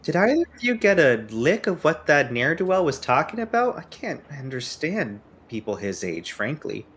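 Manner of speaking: a lightly voiced fussy older woman, disapproving; prim old lady. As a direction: huff about the young man like a prim elder. Valerie voiced by player.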